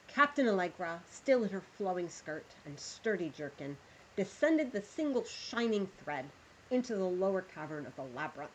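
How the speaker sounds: measured storyteller reading aloud; story narration. Acted. Streamer reads the pirate story to her chat, storyteller voice. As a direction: draw listeners into the tale.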